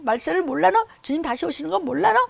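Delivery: loud high rebuke; scolding yell. Retold or imitated. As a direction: keep hammering them with questions. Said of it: "막 이러고 그냥".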